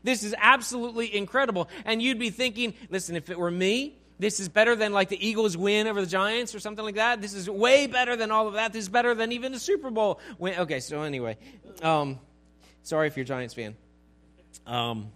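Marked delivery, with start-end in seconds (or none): 0.0-1.7 mock-ecstatic amazement, higher as it goes; lightly acted elation. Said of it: "you're ecstatic". 2.9-10.6 ecstatic. Acted. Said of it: "you're ecstatic".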